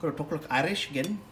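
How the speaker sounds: a lightly attempted Irish lilt; bad Irish accent. Dad hamming for the cooking video, terrible Irish accent. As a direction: have a half-successful go at an Irish accent. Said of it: "That was not Irish".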